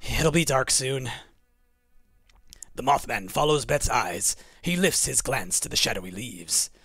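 low, measured storytelling; story narration. A narrator's reading. Reads narration aloud.

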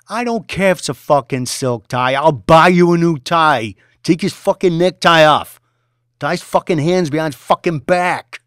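fast, loud, high badgering; demanding shout. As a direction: hammer him for an answer. Boss overrides objection.

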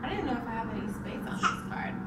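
quick whispered aside. Real, not acted. Mom whispering a quick aside over the baby's toy. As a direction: mutter it under your breath. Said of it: "aside whispered".

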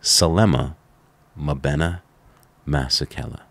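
name spaced out slowly, word by word; measured pronunciation tutorial, falling at the end; slow, phonetic. Retold or imitated. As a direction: sound out Salema, Mabena, Masekela with pauses between. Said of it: "one more time slowly".

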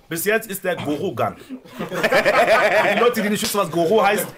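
talking through laughter; can't stop laughing mid-sentence. Real, not acted. Laughing at the Goro joke.

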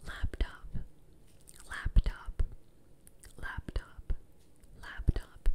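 spaced-out whispers, close to the ear; whispered test word. Pretend. Doctor testing which ear hears the word, whispering. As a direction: whisper the word, leaving long gaps. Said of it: "I'm gonna whisper something to you".

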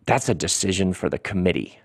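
a hint of a reserved old gentleman; old gentleman lord. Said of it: "there's an old gentleman ... he's staring straight ahead".

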